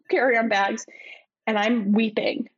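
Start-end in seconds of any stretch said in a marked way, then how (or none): 1.5-2.5 whispered weeping. Retold or imitated. Retelling crying at the airport.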